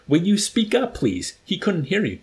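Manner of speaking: high, loud exasperated order; acted officer demanding to be heard; irritated demand. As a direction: pitch it up sharply on the demand. Officer berates the accused cadet.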